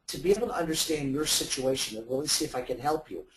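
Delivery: the word "help" given extra weight; stress on help. Shown as a demonstration. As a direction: lean into "help" so it stands out. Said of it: "I'm emphasizing this word help".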